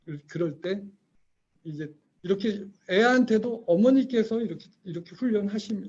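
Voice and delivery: ordinary delivery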